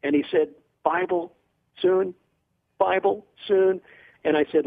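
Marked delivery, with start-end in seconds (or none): 0.8-3.8 halting question. Retold or imitated. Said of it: "managed to muster up a very brief question".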